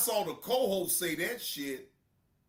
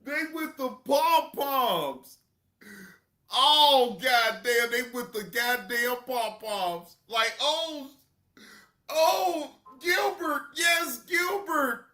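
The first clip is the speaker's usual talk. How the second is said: mock cheerleading; 4 semitones higher, 4 dB louder, slower than usual. Mocking fans cheering Gilbert.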